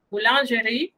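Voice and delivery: Boulangerie repeated as bulanʒeri with a rise; French pronunciation repeated. Shown as a demonstration. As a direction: model Boulangerie again, rising.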